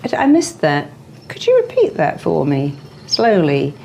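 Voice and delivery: cool comeback. Shown as a demonstration. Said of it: "then you go back and you say".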